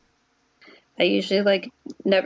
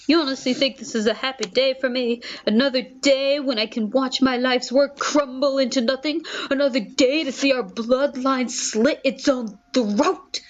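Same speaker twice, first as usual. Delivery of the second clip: bitter father rant; 4 semitones higher than usual. Acted.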